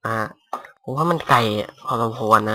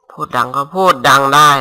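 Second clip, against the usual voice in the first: louder, proving he can be loud; showing he can talk loud; 2 semitones higher, 7 dB louder than usual. Shown as a demonstration. Gamer telling viewers he can speak loud, louder. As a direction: turn the volume up to show you can.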